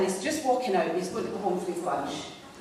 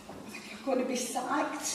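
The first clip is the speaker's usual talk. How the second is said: hushed worried whisper; 5 semitones higher, 7 dB quieter than usual. Retold or imitated. Worried colleague confessing quietly.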